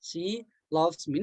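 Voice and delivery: very slow, word by word; slow dictation. Shown as a demonstration. Teacher dictating the correct sentence very slowly. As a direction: spell it out slowly for students. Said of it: "Berarti I".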